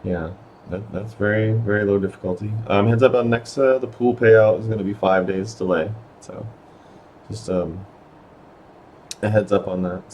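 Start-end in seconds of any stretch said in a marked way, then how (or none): 2.7-10.1 hoarse, strained voice giving out; losing voice. Real, not acted. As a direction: talk through a voice that's going. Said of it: "Sorry, I'm losing my voice again".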